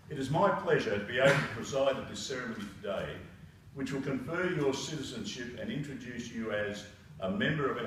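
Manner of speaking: measured official read-out; a formal speech at a citizenship ceremony. Acted. Reads official ceremony text.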